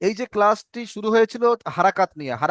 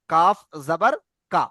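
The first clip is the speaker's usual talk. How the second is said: slow spelling drill; 3 semitones lower than usual. Shown as a demonstration. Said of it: "অর্থাৎ".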